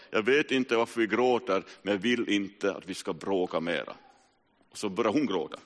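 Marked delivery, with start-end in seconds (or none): 0.1-4.0 raised voice, calling back through tears; a mild retold cry of reconciliation; calling back tearfully. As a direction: call it out across to the sister, pleading. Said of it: "jag ropar tillbaka".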